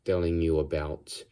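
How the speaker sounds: put-on improvised Russian accent; amateur Russian henchman accent, halting. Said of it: "I'll do a Russian accent".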